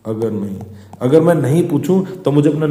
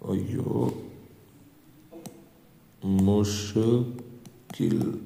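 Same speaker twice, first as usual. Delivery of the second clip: drawn-out mock dismay; 4 semitones lower, 10 dB quieter, much slower than usual. Shown as a demonstration. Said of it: "playful drawn-out word".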